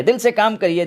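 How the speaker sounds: ordinary talk, nothing marked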